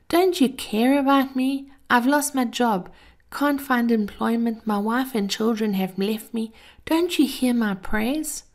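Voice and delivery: a high, pleading moan, slowing at the end; moaning lament. Acted. Man who lost everything moaning his prayers, high and pleading. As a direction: plead like a man with nothing left. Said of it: "he moaned".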